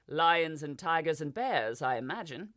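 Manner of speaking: a mild touch of sarcasm; sarcastic. Acted. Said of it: "with a sarcastic smile".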